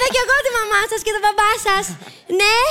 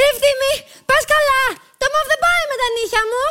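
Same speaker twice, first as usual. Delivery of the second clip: higher-pitched mock outrage; indignant complaint; 5 semitones higher than usual. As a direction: scold him over the wrong colour. Scolding him over purple clothes. (αγανακτισμένη γκρίνια)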